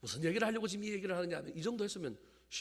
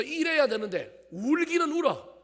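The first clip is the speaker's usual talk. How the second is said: loud, high-pitched preaching at full force; prédication enflammée; 8 semitones higher, 13 dB louder than usual. Real, not acted. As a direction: hammer the accusation into the congregation, voice raised.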